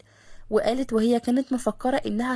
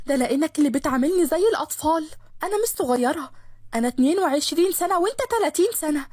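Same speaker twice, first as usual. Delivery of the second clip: put-on mildly raised, indignant young woman; angry protest; 3 semitones higher than usual. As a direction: insist she's no child. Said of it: "بغيظ وزعيق". (منار متغاظة وبتعلي صوتها شوية)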